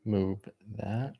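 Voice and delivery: speaking with gum in mouth; chewing gum. Real, not acted. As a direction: chew gum between words. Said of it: "Let me get rid of this gum".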